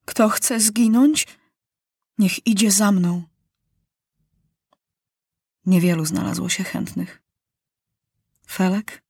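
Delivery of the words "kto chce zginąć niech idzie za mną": deliberate, slowed call; solemn challenge, word by word; king calls for volunteers to die; slow and loud. Acted. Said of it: "powoli i głośno rzekł".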